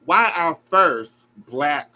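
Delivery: slow, pained; pleading through emotion; emotional plea. Real, not acted. Host pleading for Gabby, pained.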